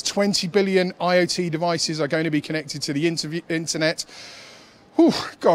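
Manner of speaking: breathless, gasping between words; running short of air mid-sentence; out of breath. Real, not acted. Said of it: "I'm running out of breath here".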